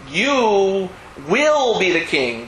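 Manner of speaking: "will" leaned on, slow and emphatic; stress on will. Shown as a demonstration. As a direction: hit the word "will" hard, drag it out. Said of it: "but stress the word will".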